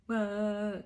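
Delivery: exaggerated imitation of ugly crying; mock crying wail. Newly engaged woman imitating her own ugly crying, mock wail. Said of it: "like, ugly crying".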